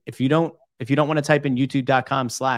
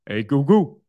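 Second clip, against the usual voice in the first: put-on old Italian grandma; 2 semitones higher, 7 dB louder, slower than usual. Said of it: "that Italian grandma".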